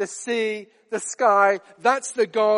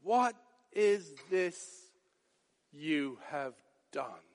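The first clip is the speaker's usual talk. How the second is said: much softer and lower, slow; stunned hush; 6 semitones lower, 10 dB quieter, slower than usual. Retold or imitated. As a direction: let the horror sink to a near hush. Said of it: "hear the shock and horror and dismay".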